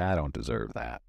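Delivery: fast, fretful self-pity; mock whining about not manifesting; whiny complaining. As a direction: rattle off your complaints, anxious. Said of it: "walk around and say".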